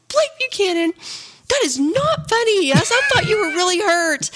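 high-pitched, indignant telling-off; retold scolding. Wife retells scolding her husband for faking injury, indignant. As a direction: scold him in a high, upset voice.

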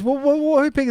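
high, spluttering mock indignation; angry wife. Wife asking husband who is to blame, angry. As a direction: imitate a partner stammering with annoyance. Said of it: "Katie got angry at you as well".

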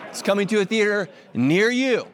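says it again through a laugh; laughing at his own joke; laughing repeat. Real, not acted. To the congregation, laughing through the repeat.

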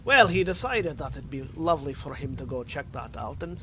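would-be Scot sounding Russian; accent stuck in Russian. Acted. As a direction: aim at Scottish, land in Russian. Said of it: "fucking stuck in Russian".

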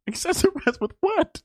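very high, drawn-out squeal of disbelief; incredulous. Real, not acted. Co-host still balking at the word, incredulous. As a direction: draw it out way up high, laughing it off. Repeats mock outrage at word.

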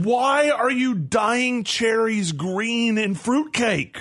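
slow, drawn-out disbelief; incredulous question. Real, not acted. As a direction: ask it as if you can't believe it. Baffled by green cherries.

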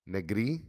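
"negri" stressed on NE, NE-gri; first syllable stress. Shown as a demonstration. Correcting the player's name for the chat, stress first syllable. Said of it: "emphasis on first syllable".

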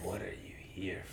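whispered, timid question; unsure president. Retold or imitated. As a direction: ask it small and unsure. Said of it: "he's so unsure".

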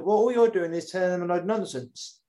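indignant rival. Retold or imitated. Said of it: "the guy's like".

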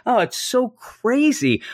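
high, puzzled, easygoing friend; calm the other man down in a lightly voiced way; a hint of a confused nice guy; mild mock bewilderment. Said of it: "He still is like".

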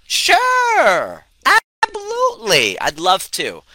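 very high mock-chirpy falsetto; falsetto sure. Coach mocking his people-pleasing self in falsetto. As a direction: squeak it out way up high. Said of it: "I'd be like".

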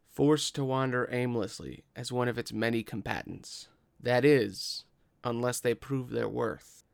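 measured, dramatic opening narration; game master's scene setting. Acted. Game master tells players of the pit's legend, dramatic narration. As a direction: intone the legend, lingering on key phrases.

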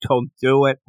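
high-pitched retold warning; mock crying plea. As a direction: imitate a boy's tearful plea, half laughing.

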